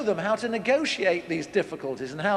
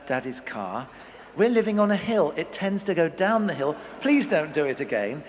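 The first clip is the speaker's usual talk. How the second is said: lightly voiced sweet, patient parent; measured loving voice. Calm parent correcting child about the handbrake, mock sweet. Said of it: "in a measured, loving voice".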